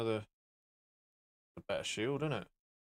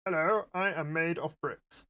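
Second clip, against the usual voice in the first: Minecrafty voice; 2 semitones higher than usual. Pretend.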